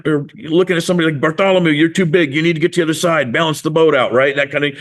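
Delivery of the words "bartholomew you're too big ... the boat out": higher, brisk boat orders; a touch of impatient skipper; lightly acted bossy crewmate. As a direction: direct a crewmate across the boat. Acted apostle ordering crewmate about.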